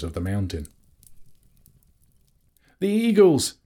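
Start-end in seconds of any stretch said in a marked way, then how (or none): 2.8-3.5 high, loud shout; ringing excited cry. A narrator's reading. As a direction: yell it high so everyone looks up. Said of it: "cried Bilbo once more".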